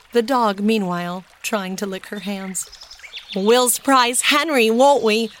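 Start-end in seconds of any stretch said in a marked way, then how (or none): 3.4-5.3 delighted. A narrator's reading. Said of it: "laughed Benny delightedly".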